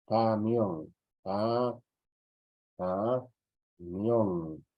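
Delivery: "camión" broken slowly into ca and mión; syllable demonstration. Shown as a demonstration. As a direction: draw out each piece of "camión" for the class. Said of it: "cuando digo".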